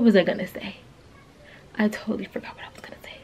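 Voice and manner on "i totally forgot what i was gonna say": breathy aside whispered to herself; whispering. Real, not acted. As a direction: drop to a whisper, talking to yourself. Trails off to herself.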